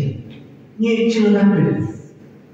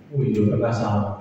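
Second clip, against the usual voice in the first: humbled reply to God, lower and softer; meek admission; 7 semitones lower, 5 dB quieter than usual. Retold or imitated.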